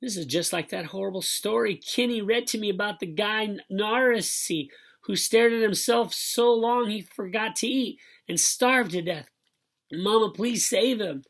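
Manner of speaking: put-on high, loud little-kid blubber; high, overwrought child's wail. A narrator's reading. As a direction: blubber it out, pleading with Mama. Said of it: "Joey blurbered out".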